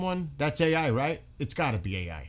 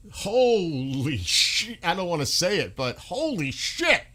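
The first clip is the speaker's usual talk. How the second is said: slow stunned disbelief; 5 semitones higher, slower than usual. Real, not acted. Stunned reaction.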